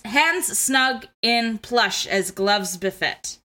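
measured verse reading, each phrase set apart; poem read aloud. Shown as a demonstration. Host reading Rose's poem aloud before analysing it, poem recital. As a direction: recite the rhymed lines with a deliberate lilt. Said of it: "I'll read it aloud".

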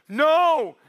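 sharp refusal. Retold or imitated. Ski patrol refusing him.

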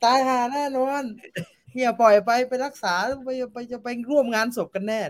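high, loud mocking jeer; high, loud mocking voice, as if announcing it to the whole court. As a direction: jeer it out for all to hear, half in fun. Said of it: "พูดเสียงดัง".

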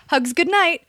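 high, loud sing-out; imitating pushy roommate. Roommate asking for a bedtime hug, imitated high and loud. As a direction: mimic an over-eager bedtime call.

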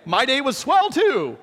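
put-on hammy old-sitcom child; wholesome 1950s kid. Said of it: "my kids are just looking at me going".

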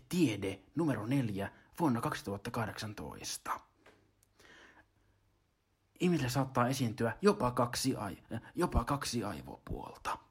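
ordinary-pitched magazine reader; imitating a narrator's current voice; Timo Mäkynen. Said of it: "Nykyään Timo Mäkynen lukee tämmöisellä äänellä".

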